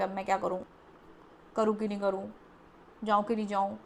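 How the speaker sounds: low-pitched, dithering to oneself; acted indecision. Reader voices a stuck client asking what to do, acted indecision. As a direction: imitate someone stuck weighing yes and no. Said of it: "बैठ गए हो कि".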